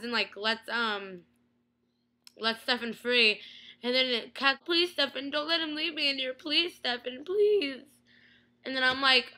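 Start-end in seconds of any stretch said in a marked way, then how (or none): 4.6-7.8 imitated begging, higher on the last plea; mock pleading. Catherine begging Stefan not to leave her, mock pleading. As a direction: beg as if retelling a desperate plea.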